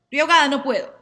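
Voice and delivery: gasping, rising panic, choking on the words; breathless panic. Acted. Astrologer acting out someone choking on their feelings, panicked. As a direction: plead that she can't breathe.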